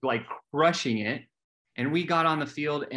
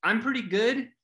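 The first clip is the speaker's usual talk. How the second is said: smug; 8 semitones higher than usual. Retold or imitated. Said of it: "I was like".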